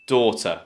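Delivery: "daughter" as DAW-tuh; British "daughter", schwa ending; correct daughter. Shown as a demonstration. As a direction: model "daughter" with long aw. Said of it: "Option B".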